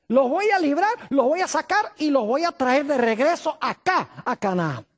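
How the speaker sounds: God assuring Abraham of deliverance, forceful preaching; God promising. Retold or imitated. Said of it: "Dios le está diciendo a Abraham".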